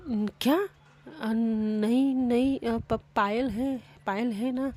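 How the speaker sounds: high, loud, stumbling over every word; shocked stammer. A narrator's reading. Mishka, caught off guard by Sam, stammers in shock. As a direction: blurt it out in flustered disbelief. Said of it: "मिष्का भी shock.".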